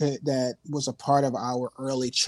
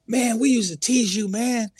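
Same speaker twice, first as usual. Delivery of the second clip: higher-pitched impression of teasing old pals; old friends quoted; 9 semitones higher, 5 dB louder than usual. Old friends meeting the musician, teasing recollection. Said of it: "They're like".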